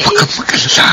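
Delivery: breathy secret whisper. Acted. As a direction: hush it so no one hears. Boss whispers to maid.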